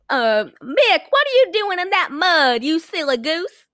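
put-on high, teasing girl voice, drawn out at the end; playful girl. Girl teasing Mick in the mud, high mock-sweet voice.

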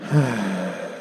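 soft sigh right at the ear; close sigh in ear. Real, not acted. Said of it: "got really close to your ear and just sighed".

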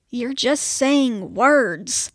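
slow, exasperated snap; snapping. Acted. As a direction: drag out each word in irritation. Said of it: "Georgie snapped".

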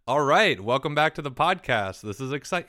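podcast voice. Acted. Host welcomes listeners back in his podcast voice. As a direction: put on your radio host voice. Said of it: "that's not the way you were talking to me".

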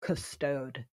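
French word "custode", said koss-TOHD; French pronunciation. Shown as a demonstration. Telling hosts the French word for heavy wine, French pronunciation. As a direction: say "custode" slowly and softly as French. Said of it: "In France, they would say".

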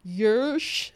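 muffled, slurred as round a mouthful; thick-tongued, gagged attempt at a word; mouth stuffed. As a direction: say it as if a glove fills your mouth. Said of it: "I say with a goalkeeper's glove in my mouth".

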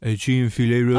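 chicken filet roll with silly French vowels; over-Frenchify every word of the order; mock French accent. Teasing co-host's deli order, mock French accent. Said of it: "do you ask for a filet".

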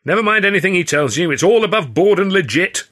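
loud indignant call-out. A narrator's reading. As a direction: call it out loud and high to cut in. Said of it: "Hurley called out".

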